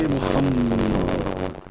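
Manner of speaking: very slow, drawn-out call of the name; solemn angel call. Acted. Angel appearing to Muhammad, slow drawn-out call. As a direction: stretch the name like a distant summons. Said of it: "He say".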